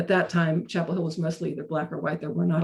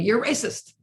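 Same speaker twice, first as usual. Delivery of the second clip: raised, higher pitch, accusing; retold teen's insistent accusation; heated accusation; 5 semitones higher than usual. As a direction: fling the accusation back at her. Teen argument with speaker.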